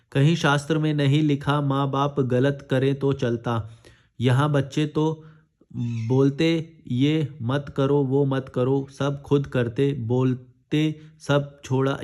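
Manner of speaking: slow, halting word-by-word reading; reading a comment aloud. Acted. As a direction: read it out haltingly, slowly. Reads a viewer comment aloud. (Comment को धीरे-धीरे, अटक-अटक कर पढ़ना)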